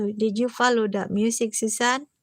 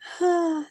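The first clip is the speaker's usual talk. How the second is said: brief, higher laugh; short laugh; 5 semitones higher than usual. Real, not acted. Friend winding down from her joke, short laugh. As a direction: let out one leftover laugh.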